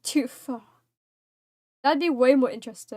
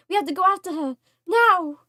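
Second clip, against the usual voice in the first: urgent demand; 4 semitones higher, 4 dB louder than usual. Acted. Voicing urgent character.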